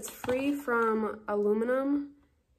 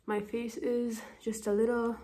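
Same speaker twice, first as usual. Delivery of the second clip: talking while catching breath; breathless after a hot bath. Real, not acted. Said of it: "sorry, I'm out of breath".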